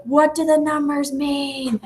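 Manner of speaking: high, drawn-out wail without the volume; mock frustrated scream. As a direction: imitate exasperated kids wailing, slowly. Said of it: "they're screaming".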